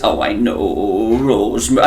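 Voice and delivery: Hull accent attempt. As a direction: murmur it in a weak Hull accent. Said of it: "I can't do the Hull accent".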